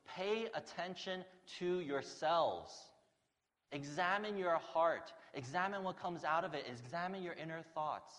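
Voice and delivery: loud, high, slow commanding words; forceful command. Retold or imitated. Jesus warning the disciples, loud, slow and commanding. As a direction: proclaim it like a stern command. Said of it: "He goes".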